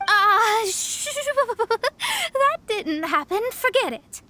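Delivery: embarrassed stammer, then slow denial; flustered denial. Acted. Master caught with a rumbling stomach, flustered denial. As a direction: cover your embarrassment quickly.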